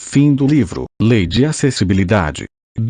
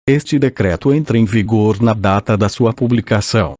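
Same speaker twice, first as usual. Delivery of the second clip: robotic synthesized voice reading. Real, not acted. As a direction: computer text-to-speech voice. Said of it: "com voz sintetizada".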